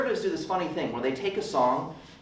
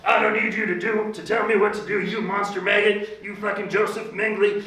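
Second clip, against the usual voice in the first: ranting; 6 semitones higher than usual. Retold or imitated. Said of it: "she just started ranting".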